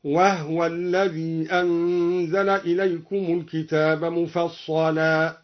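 وهو read as wahwa with the ha stilled; slow recitation of وهو as one syllable. Shown as a demonstration. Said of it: "سكن الدوري الهاء هكذا".

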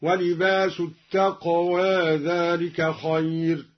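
التقوى with the final alif tilted halfway toward e, slow; light imala on التقوى; التقوى read with taqlil. Shown as a demonstration. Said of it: "قلل التقوى".

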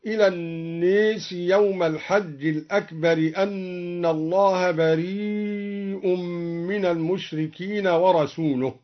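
الناس with the a leaned toward e; imala on an-nas. Shown as a demonstration. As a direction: tilt the long a in الناس toward e. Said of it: "أمال الناس أيضًا هكذا". (الناس بالإمالة، نَاس مائلة)

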